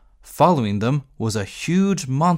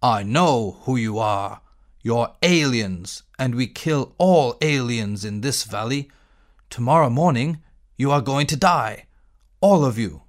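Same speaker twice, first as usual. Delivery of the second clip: a lightly voiced menacing monster, a bit lower; monster roaring; 3 semitones lower than usual. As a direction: lightly growl the threat like a cave monster. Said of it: "Gork roared again".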